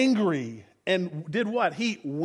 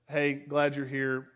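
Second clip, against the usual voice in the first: dismissive brush-off; 7 semitones lower, 7 dB quieter than usual. Retold or imitated. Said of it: "cracks a little bit".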